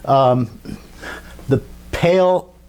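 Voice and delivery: hesitant, halting stutter. Real, not acted. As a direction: stumble over the words. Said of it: "That's why I'm, I'm stuttering here".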